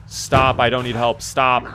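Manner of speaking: loud, insistent refusal; protesting shout. Real, not acted. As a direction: yell stop at them. Refusing help, shouting at game.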